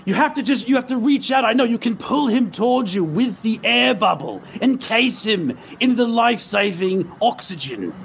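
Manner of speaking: earnest push to make them believe; urgent coaching. Acted. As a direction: coach someone urgently through a rescue. Player coaches girl through the rescue.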